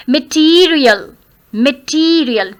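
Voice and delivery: "material" with a long, stressed "tee"; prolonged T syllable. Shown as a demonstration. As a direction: stretch the second syllable of "material". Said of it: "T is to be prolonged". ("material" में "टी" को लंबा करके)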